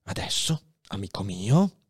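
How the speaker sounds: a dying man's gentle goodbye; tender farewell. Acted. Faria bids his young friend farewell, tender.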